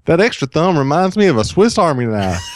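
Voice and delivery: reading the quote while breaking into a laugh; laughing exclaim. Retold or imitated. Host reads the dad's quote to cohost, laughing through it.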